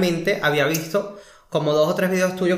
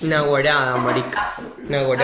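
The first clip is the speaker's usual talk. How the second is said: Caracas-accented demonstration; 4 semitones lower, slower than usual. Shown as a demonstration. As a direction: lower naguará in a Caracas accent. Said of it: "con acento caraqueño".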